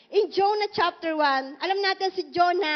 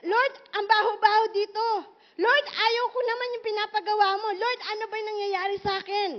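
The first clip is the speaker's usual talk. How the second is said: Jonah complaining; 4 semitones higher than usual. Retold or imitated. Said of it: "sabi niya ganon".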